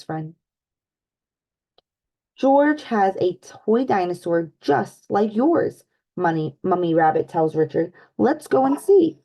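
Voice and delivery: lively storybook read-aloud for little ones; animated picture-book narration; reading to children. Acted. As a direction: read it like story time with kids.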